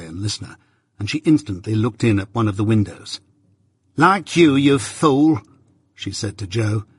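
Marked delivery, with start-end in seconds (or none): 4.0-5.4 higher, cutting rebuke; sharp scolding. Acted. Wife rebuking her husband through the window, scolding. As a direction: scold him sharply, pitched up.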